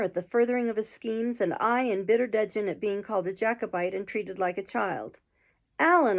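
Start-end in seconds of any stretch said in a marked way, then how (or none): 5.8-6.2 high, loud call of his name; cried out. A narrator's reading. Narrator can stand no more of Allan's scheme, crying out. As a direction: burst out in protest, louder and higher. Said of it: "I cried".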